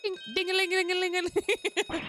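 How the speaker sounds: high ringing ding-a-ling; imitated alarm bell. Player setting off the alarm bell, mimicked ringing.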